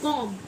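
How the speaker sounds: कॉम्ब ending on m; correct silent b. Shown as a demonstration. Teacher allowing only this reading, b silent. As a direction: leave कॉम्ब without its b. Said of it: "सिर्फ कॉम्ब".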